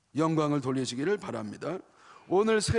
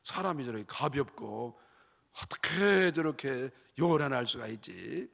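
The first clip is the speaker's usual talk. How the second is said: slow, disapproving tutting voice; tut-tut at the cheerful deaconess; disapproving gossip; 2 semitones lower, slower than usual. Retold or imitated. Preacher mimics a critic of a cheerful deaconess, slow and tutting. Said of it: "부정사는 뭐라 그래요?".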